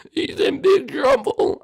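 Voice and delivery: high, slow looming warning; ominous voice. Acted. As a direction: draw it out like a threat. Ominous threat about Jeffy.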